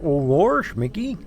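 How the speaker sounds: high, slow goofy cartoon dog voice; Goofy calling out to Mickey; Goofy impression. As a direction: play it dopey like Goofy. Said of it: "Goofy being like".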